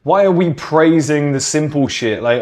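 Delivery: normal talking voice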